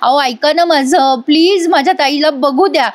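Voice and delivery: lightly acted insistent plea; mock pleading cry. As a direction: imitate a sister begging to be heard. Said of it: "ही ओरडतच असते".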